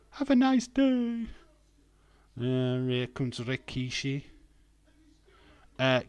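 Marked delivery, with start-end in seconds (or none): 0.1-1.3 high, loud wrestler's catchphrase; Mick Foley catchphrase. Acted. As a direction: belt it out in a high put-on voice.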